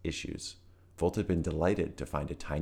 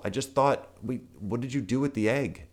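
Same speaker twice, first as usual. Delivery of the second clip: put-on higher, anxious young voice; panicked; 7 semitones higher than usual. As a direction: blurt it out in panic. Volt panics about the egg.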